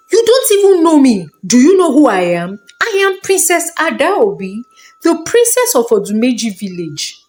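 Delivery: fast, sharp, rising indignation; haughty princess scolding. Acted. Princess scolds the old man, fast and indignant. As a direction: put the old fool in his place.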